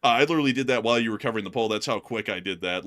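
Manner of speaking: winded and rushed; panting after running around; out of breath. Real, not acted. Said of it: "you gotta be, like, bad out of breath".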